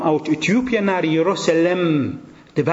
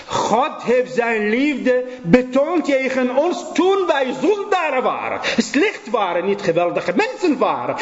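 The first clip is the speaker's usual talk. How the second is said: preaching at full force; 9 semitones higher than usual. Acted. Preacher pleading with his congregation, impassioned. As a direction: preach it out with rising fervour.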